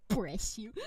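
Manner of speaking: a sudden loud, punchy bless you. Pretend. Streamer blesses a chat sneeze, loud. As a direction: bark the blessing out.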